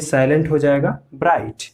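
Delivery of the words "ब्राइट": ब्राइट with no g or h before the final t; silent GH. Shown as a demonstration. Teacher demonstrates bright, gh silent. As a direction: run the vowel of ब्राइट straight into t. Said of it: "तो इसमें जीएच कहीं आया".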